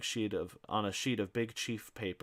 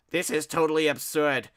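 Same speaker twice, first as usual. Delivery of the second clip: huffy Ignatius; 7 semitones higher, 9 dB louder than usual. Acted.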